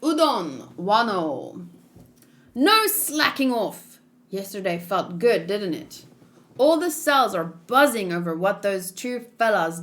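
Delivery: lightly acted rough inmates, then a formal old man; voiced prison characters. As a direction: play the guards and prisoners with a hint of character.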